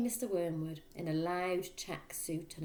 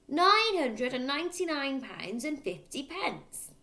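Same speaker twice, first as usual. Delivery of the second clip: slow, higher, louder dictation; dictating father; 9 semitones higher, 6 dB louder, slower than usual. A narrator's reading. Father dictating car prices to his son, slow and loud. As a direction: spell out each figure like an order.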